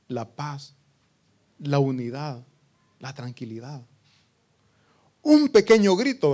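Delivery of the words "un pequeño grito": loud high burst on un pequeño grito; sudden shout. Acted. Preacher jolting the congregation, sudden shout. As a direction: shout the opening as a jolt. Preacher dramatizes a small outburst.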